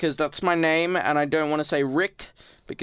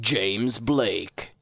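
awesome voice; 3 semitones lower than usual. Pretend. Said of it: "in my awesome voice".

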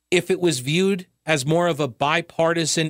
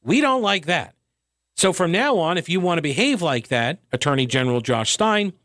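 legislature voice. Retold or imitated. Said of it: "General Assembly says".

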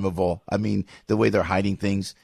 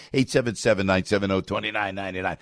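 phone number in a New Jersey accent; 2 semitones lower, faster than usual. Shown as a demonstration. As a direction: read the digits with a thick New Jersey accent. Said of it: "with my New Jersey accent".

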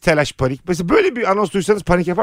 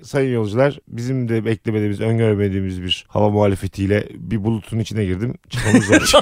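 pilot over the radio; 11 semitones lower, 3 dB quieter than usual. Pretend. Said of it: "Şöyle mesela dedi ki".

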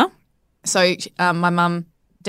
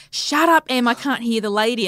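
higher opening, mock exasperation; exasperated partner, imitated; 4 semitones higher than usual. Partner on the phone over screaming, imitated exasperation. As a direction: act out a harried telling-off.

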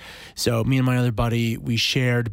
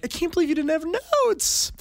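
much higher mock disbelief, voice climbing; amazed guests. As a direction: mimic the guests gushing in surprise. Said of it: "they were like".

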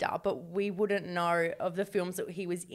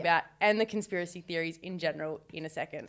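lower, formal legal-notice delivery; disclaimer read; 3 semitones lower, 3 dB quieter than usual. Acted. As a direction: read it out like small print. Reads out a disclaimer.

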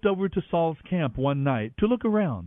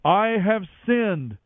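confessing; 5 semitones higher, 4 dB louder, much slower than usual. A narrator's reading. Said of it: "Then Saul confessed".

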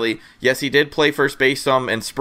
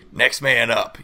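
gravelly coach voice; 2 semitones lower than usual. Retold or imitated. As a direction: growl it like a gruff old coach. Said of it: "I like the grovelly voice you did for next man up".

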